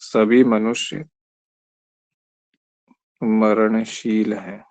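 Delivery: slow, drawn-out words with a pause between; slow dictation. Shown as a demonstration. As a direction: dictate it slowly for the notebook. Dictating the Hindi translation. (धीरे-धीरे लिखवाना)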